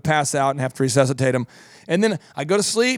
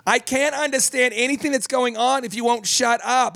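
put-on much higher, put-upon old lady; Marge complaining; 7 semitones higher than usual. Marge snapping at the man during Survivor, higher. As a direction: snipe at him as a fed-up old lady. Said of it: "Marge would say".

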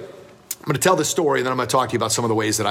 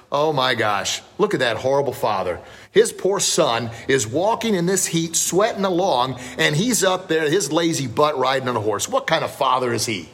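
appalled onlooker, pitched up through the middle; mock scolding; 3 semitones higher than usual. Townsperson scolds a horrible father, mock outrage.

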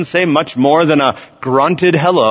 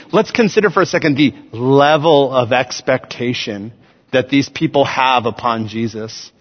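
ordinary talk

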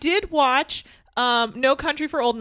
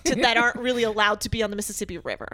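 Elon Musk impression. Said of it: "he's like".

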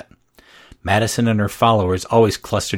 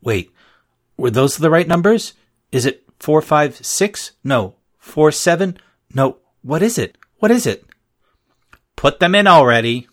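higher and louder, frantic questions; rising panic; 6 semitones higher, 4 dB louder than usual. A narrator's reading. Girl panicking at the lunch register, frantic. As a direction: spiral into panic.

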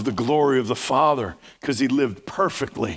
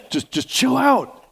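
high, slow, drawn-out plea to just chill out; emphatic chill out; 11 semitones higher than usual. Shown as a demonstration. Preacher urging the congregation to relax, high and drawn-out. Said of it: "he didn't say it like that".

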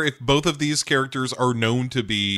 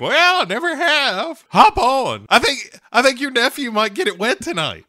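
put-on much higher, louder old-lady falsetto; 13 semitones higher, 3 dB louder than usual. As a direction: coo back like a saucy grandma. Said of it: "And she's like".

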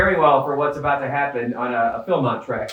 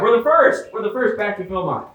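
excited shout; 5 semitones higher than usual. Retold or imitated. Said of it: "people in the back reporting out".

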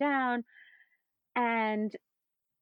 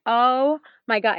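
slow stunned oh my God; 4 semitones higher, 7 dB louder, slower than usual. Retold or imitated. Cohost's reaction retold.

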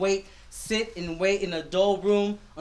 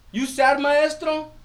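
put-on high, slow little boy's question; concerned child; 6 semitones higher, 5 dB louder, slower than usual. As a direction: ask gently like a worried kid. Child asks teacher.

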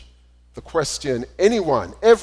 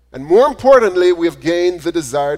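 emphatic build; 4 semitones higher, 8 dB louder than usual. Real, not acted. Preacher building to point.

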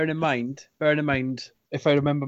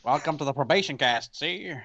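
fake tough guy voice. Shown as a demonstration. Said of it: "weird gangster voice".

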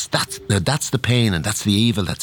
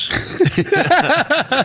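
high burst of laughter. Real, not acted. Laughs at the invisible suit joke.

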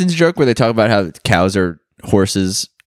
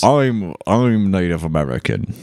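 British accent attempt; 5 semitones lower than usual. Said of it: "What's his accent?".

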